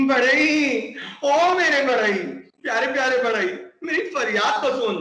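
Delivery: high, sweet pleading parrot voice; butter up the carpenter lovingly; coaxing parrot. Acted. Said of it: "प्यार से मना लूं".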